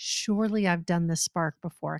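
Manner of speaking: normal talking voice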